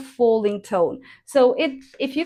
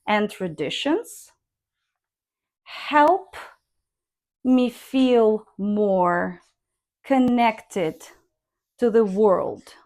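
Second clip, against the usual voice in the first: help lifted, me feel more slow, falling on the world; connected reading; slower than usual. Shown as a demonstration. Teacher demonstrating linked intonation, falling at world. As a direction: glide through, fall at the end. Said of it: "I also recommend using rising".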